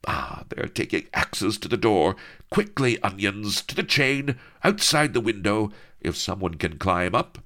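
lightly voiced brave damsel; urgent maiden. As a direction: urge them on, archaic and high. Vanity's urgent plan.

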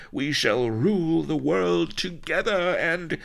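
woo grandly, swelling into ecstatic high declaiming; passionate pirate queen. A narrator's reading. Pirate queen promising her beloved the world, high and rapturous. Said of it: "she panted".

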